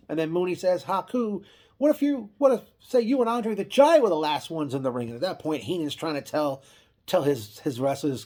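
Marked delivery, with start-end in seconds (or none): 0.8-5.1 mock instigating question. Mooney stirring trouble.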